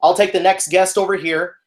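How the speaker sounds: mildly projected customer-service call; theater voice. Retold or imitated. Concession worker calling the next guest, mock theater voice. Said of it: "I'm just yelling at this dude".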